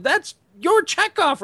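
very high, slow insistence; mock exclaiming. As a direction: squeal it out, drawn and high. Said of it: "I said".

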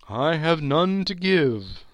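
high, loud, hollow spectre; solemn ghost. Acted. Marley's ghost lecturing Scrooge, high and loud. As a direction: pronounce it like a doom.

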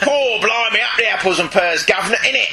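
hammed-up Cockney patter, lightly done; a light cheeky Cockney impression; mock Cockney. Mocking Constantine's lines in a mild Cockney. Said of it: "Constantine's speech patterns are still irritating".

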